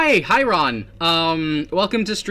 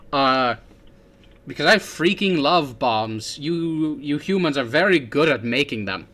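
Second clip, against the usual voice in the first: put-on silly British-German accent. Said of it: "I don't know where this accent came from".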